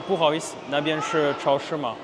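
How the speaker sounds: Mandarin with deliberately poor tones and a French accent; bad French accent. Shown as a demonstration. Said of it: "comme j'ai pu pour l'accent dégueulasse". (accent français dégueulasse en chinois)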